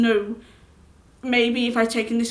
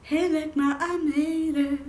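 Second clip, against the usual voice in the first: slow higher proud call; proud triumph; 4 semitones higher, slower than usual. Acted. Vlogger telling mom they made it, proud. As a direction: announce it like a winner. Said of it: "quoting a proud line".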